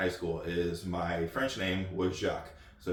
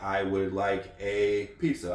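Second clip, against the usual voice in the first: slow, even teaching demo; patient language-lesson delivery; slow example sentence; slower than usual. Shown as a demonstration. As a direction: model it slowly like a tutor.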